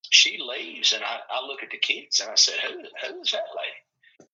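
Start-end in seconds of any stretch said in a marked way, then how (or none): 2.6-4.3 high, slow, hushed bafflement; squeaky retold puzzlement; baffled question. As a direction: act out asking the kids in confusion. Retold question to his students.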